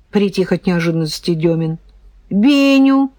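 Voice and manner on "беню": ordinary delivery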